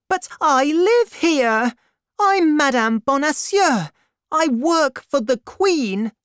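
high, loud, desperate woman's cry; panicked frantic pleading. A narrator's reading. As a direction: scream it out in panic. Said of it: "heard a woman scream".

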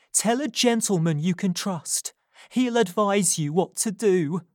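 urgent Nancy. A narrator's reading. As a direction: confess it as if your life depends on it. Nancy advising.

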